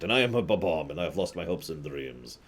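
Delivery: put-on slipping into a light Russian accent; half-hearted Russian accent, lonely old soldier; mock Russian accent. Gloomy Bob-omb general reading his lines in a light Russian accent. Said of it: "I said I wasn't going to do it".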